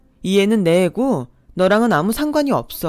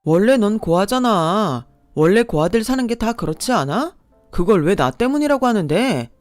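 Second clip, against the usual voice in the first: heated quarrel; 3 semitones higher, 4 dB louder than usual. Acted. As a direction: hurl insults back, rising. Quarrel with ex, insults fly.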